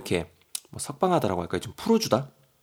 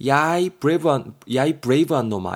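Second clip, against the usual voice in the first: louder, hammed-up telling-off; mock scolding; 4 semitones higher, 4 dB louder than usual. Usik jumps in to tell off his pal, mock scolding. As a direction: scold him in playful exasperation.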